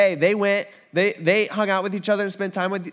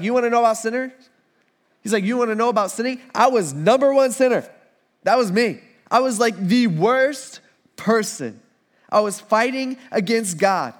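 boastful confession; 5 semitones higher, 3 dB louder than usual. Retold or imitated.

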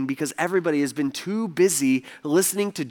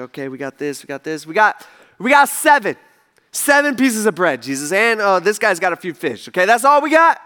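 nervous reassurance; 4 dB louder than usual. Acted. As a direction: fake confidence cracking into doubt. Disciples nervously counting bread.

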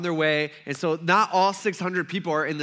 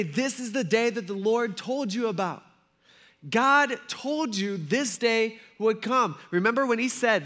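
high, insistent excitement; acted thrilled persuasion; all excited; 5 semitones higher than usual. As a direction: urge him with eager conviction. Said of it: "And they're all excited".

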